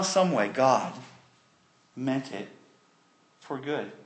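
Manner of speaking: soft, measured, with long pauses; calming reassurance. Retold or imitated. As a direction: settle frightened brothers, dropping gently after the first "no". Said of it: "he calmed them all".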